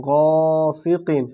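গসিকিন held long, recitation style; slow blended word. Shown as a demonstration. Teacher chants the joined word for pupils, slowly. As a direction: draw out গসিকিন. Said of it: "কফ দো জের কিন".

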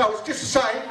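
high, mocking hipster voice; prissy mock whine. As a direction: sneer it like a smug fruit-tea drinker. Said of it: "They say".

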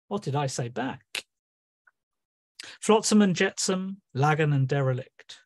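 lightly voiced sea god listing wreckage; Neptune. Neptune answering Gaia, lightly voiced sea god. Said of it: "in the voice of Neptune".

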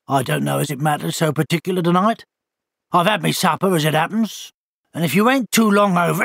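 grudging country owl, mildly put out; a hint of a surly old bird; giving the walker his time with bad grace; ungracious owl. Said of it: "said the owl ungraciously".

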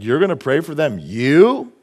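a lightly voiced sneering devil; mocking devil. The devil taunting a believer asked to pray, lightly mocking voice. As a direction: scoff at the believer like the accuser. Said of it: "the devil's like".

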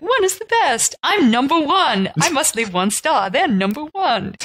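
high, slow bragging voice; proud mock reviewer. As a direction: brag like a proud dimwit. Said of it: "people that think, like".

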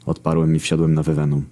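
plain reading voice

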